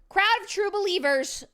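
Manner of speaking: grand card announcement. Acted.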